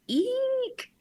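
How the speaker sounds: high, drawn-out eek; frightened eek. Retold or imitated. Star spots an intense man rushing at her, mock-frightened squeal.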